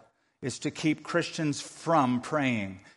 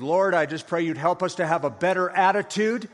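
pointed, rising to louder and higher at the end; a self-righteous jab dressed as prayer; mock preachy prayer; 4 semitones higher, 3 dB louder than usual. Someone at the dinner table preaching at others through a prayer, rising to a pointed jab. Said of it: "and somebody says".

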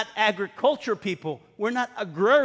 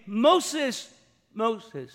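divine call. Retold or imitated. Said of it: "he heard the double name".

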